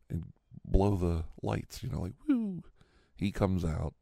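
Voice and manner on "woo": short high "woo" siren blip; imitated siren. Police pulling in with lights, high imitated siren. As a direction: mimic a police siren burst.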